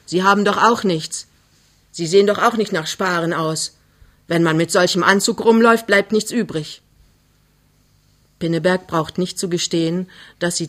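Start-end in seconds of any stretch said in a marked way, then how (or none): 0.1-6.8 mildly angry reproach; cross again. Acted. Mother belittles suitor's finances, cross again. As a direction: find fault with him sharply. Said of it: "Plötzlich ist die Frau wieder böse".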